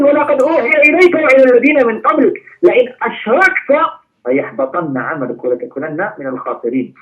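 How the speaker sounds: swift melodic tajweed recitation of the verse; Quran recitation. Real, not acted. Preacher reciting the verse to the congregation, melodic tajweed. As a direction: recite it in flowing tajweed, quickly.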